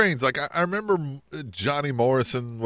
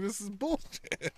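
muttered aside; 5 semitones higher, 13 dB quieter, slower than usual. Retold or imitated. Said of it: "he was like".

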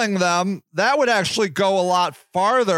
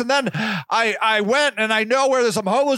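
eager do-gooder; 3 semitones higher than usual. Retold or imitated. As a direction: brag cheerfully about socks. Voicing the sock-giving woman.

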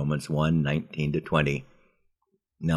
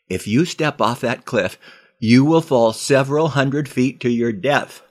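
higher, louder dire warning; alarmed plea about his death; urgent warning; 8 semitones higher, 8 dB louder than usual. Acted. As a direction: make him see the danger. Warning friend at cliff.

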